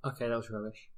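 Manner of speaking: a mumbled, deflated last word; deadpan sign-off. Pretend. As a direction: drop it flat and quiet. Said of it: "final word of the show".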